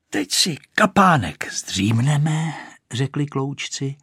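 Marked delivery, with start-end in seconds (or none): 0.1-2.5 slow, sleepy whisper; drowsy, half-whispered; hushed. Acted. Sleepy boys voiced. (ospale, šeptem)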